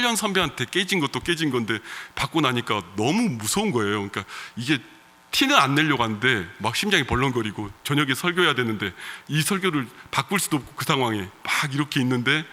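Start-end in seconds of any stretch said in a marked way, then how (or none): none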